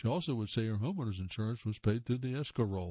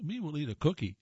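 Cookie Monster; 5 semitones higher than usual. Retold or imitated. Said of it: "Cookie Monster Muppet".

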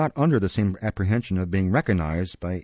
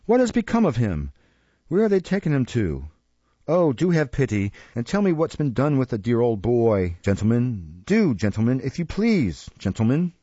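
mock heartbroken. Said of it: "in a most lamentable and heartbroken tone".

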